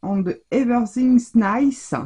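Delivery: put-on slow, careful English accent on a brand name; French speaker putting on her best English accent; playful English accent, slightly slowed. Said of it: "avec mon accent English".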